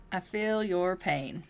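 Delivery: sincere sympathy. Shown as a demonstration. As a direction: draw it out like you truly mean it.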